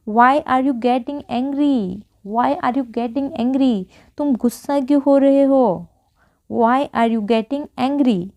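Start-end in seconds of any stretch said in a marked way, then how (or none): 0.1-3.8 very slow, word by word; slow model sentence. Shown as a demonstration. Teacher modelling an English sentence for Hindi learners, very slow. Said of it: "तो क्या बोलेंगे हम". 6.5-8.3 very slow, word by word; slow model sentence. Shown as a demonstration. Teacher modelling an English sentence for Hindi learners, very slow. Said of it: "क्या बोलेंगे".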